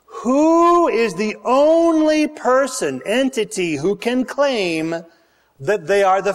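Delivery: high, slow, drawn-out challenge; preaching. Real, not acted. Preacher pressing the congregation with a slow, high question. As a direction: lean hard on the question.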